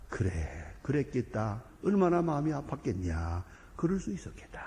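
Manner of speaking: soft, sympathetic murmur ending in a whisper; gentle comforting. Acted. Priest comforting a repentant sinner, soft sympathy. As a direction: console the sinner softly.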